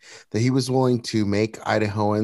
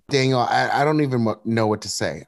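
at a loss, false starts and restarts; stumbling over words. Real, not acted. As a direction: trip over your words, searching for what to say. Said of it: "I'm stumbling on my words".

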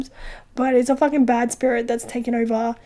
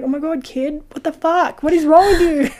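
rising shocked yell; 3 semitones higher than usual. Retold or imitated. Retold shock at the kid.

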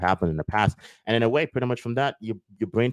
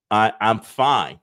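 hesitant; 6 dB louder, much slower than usual. Retold or imitated. Martha hesitantly insisting.

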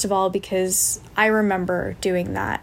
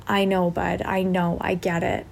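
sympathetic apology. Retold or imitated. Holding space for a crying boy, mildly consoling. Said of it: "that was the, more the, the way that I was saying it".

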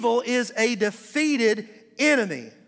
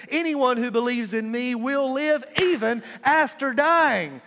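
slow, emphatic preaching, pressing each phrase; full-force preaching; 3 semitones higher than usual. Acted. Pastor preaching hope to the congregation, slow and emphatic.

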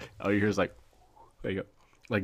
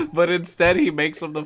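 higher voice through laughter; laughing; 7 semitones higher, 3 dB louder than usual. Real, not acted. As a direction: barely get the punchline out, laughing. Laughing at his own punchline.

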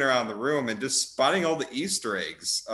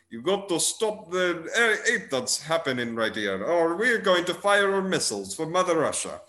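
bad Russian accent; 4 semitones higher than usual. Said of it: "speaking in a very bad Russian accent".

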